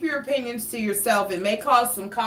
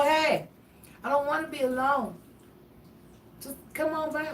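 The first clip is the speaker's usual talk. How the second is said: coaxing invite; 6 semitones higher, 4 dB quieter than usual. Pretend. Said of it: "Just let somebody know".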